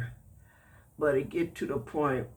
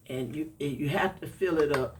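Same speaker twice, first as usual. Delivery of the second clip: congested. Real, not acted. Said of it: "I'm kinda congested now".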